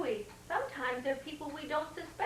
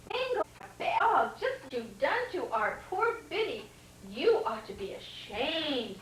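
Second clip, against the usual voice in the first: scolding; 3 semitones higher than usual. Acted. Betty scolding Bingo for hurting Biddy. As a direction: scold the dog sharply. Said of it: "said Betty".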